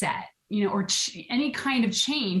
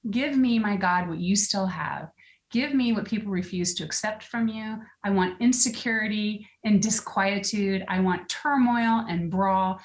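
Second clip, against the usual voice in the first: reading a prayer aloud. Acted. Reading the commando prayer to a friend, solemn and earnest. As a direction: read it like a solemn prayer to God.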